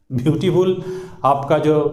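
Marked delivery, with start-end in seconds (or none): 0.1-0.8 "ब्यूटीफुल" as byoo-tee-fool; wrong three-syllable beautiful. Shown as a demonstration. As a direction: sound a full "tee" inside "ब्यूटीफुल". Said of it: "pronunciation होगा वो wrong होता है". ("ब्यूटीफुल" में बीच का "टी" पूरा बोलकर)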